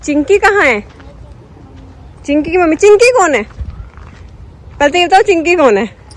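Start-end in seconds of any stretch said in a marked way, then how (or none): 2.8-3.4 high, puzzled who-is-that; surprised question. Real, not acted. Vlogger surprised as kids mention an unknown dog, puzzled question. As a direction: ask in genuine surprise.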